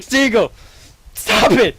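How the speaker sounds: high, loud scolding shout; alarmed yell. Retold or imitated. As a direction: yell at a friend to stop. Friends trying to stop Seagull.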